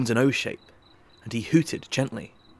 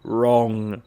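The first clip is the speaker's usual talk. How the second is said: loud triumphant declaration; 6 dB louder than usual. Acted. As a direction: crow it out, pleased. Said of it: "declared Merchant triumphantly".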